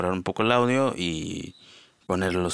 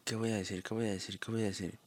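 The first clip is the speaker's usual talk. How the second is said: muttering to himself; 10 dB quieter, faster than usual. Retold or imitated. Repeating himself, stuck at midnight.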